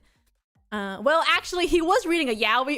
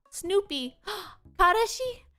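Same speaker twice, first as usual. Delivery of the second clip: gasping surprise; 6 semitones higher, slower than usual. Retold or imitated. Worker gasps, quoting her.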